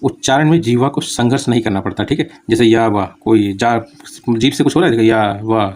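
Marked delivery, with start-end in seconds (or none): 2.5-5.7 या and वाह said open with no tongue effort; semivowel demo. Shown as a demonstration. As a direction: glide easily through या वाह. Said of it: "जीभ को कुछ role ही नहीं". (या वाह बिना घर्षण के)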